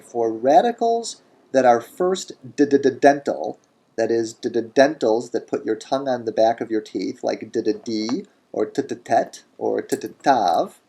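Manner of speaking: dentals sounded out with repeated d-d-d and t-t-t; stuttered dentals. Shown as a demonstration. Teacher playfully tapping out dental sounds. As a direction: tap the tongue on d-d-d and t-t-tav. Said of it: "stuttered dental sounds".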